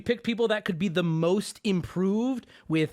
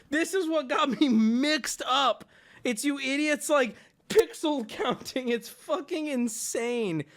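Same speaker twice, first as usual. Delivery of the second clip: laughing; 5 semitones higher, slower than usual. Real, not acted. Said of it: "I'm laughing at you guys".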